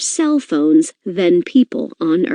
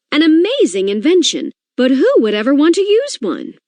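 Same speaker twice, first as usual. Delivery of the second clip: a higher-pitched, doubtful president's voice; a president brushing off the new gadget; Rutherford B. Hayes; 7 semitones higher than usual. Acted. President doubting the telephone, higher-pitched and sceptical. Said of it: "he had this to say about the telephone".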